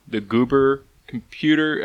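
words slurred as if marbles in mouth; slow, tangled mispronounced name. Real, not acted. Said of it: "I got marbles in my mouth today".

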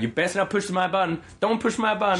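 imitated annoyed clerk. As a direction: imitate a pissed cashier warning her coworkers. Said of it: "this is how she talked".

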